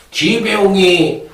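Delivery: high, loud hammed-up battle cry; triumphant shout. A horse charging in to win, hammed-up triumphant shout. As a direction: bellow it like a charging veteran. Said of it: "이러면서 오면은".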